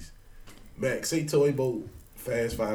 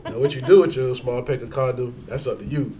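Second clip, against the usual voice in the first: smooth, emphatic commercial pitch with a hint of laughter; mock ad read; 4 dB louder than usual. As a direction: sell it like a radio sponsor spot. Improvised mock sponsor read.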